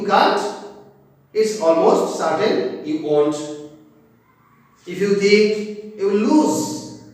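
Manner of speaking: slow, careful poem recital, each line spaced out; slow reading. Shown as a demonstration. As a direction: read it slowly so students can follow. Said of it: "I will read slowly". (धीमी गति से कविता पाठ)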